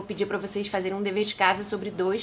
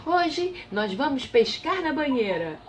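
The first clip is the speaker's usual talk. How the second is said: rei decidido; 6 semitones higher, slower than usual. A narrator's reading. Rei anuncia pescaria.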